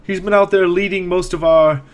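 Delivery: put-on worried old caretaker reporting news; a hint of a frowning old man; elderly man, frowning.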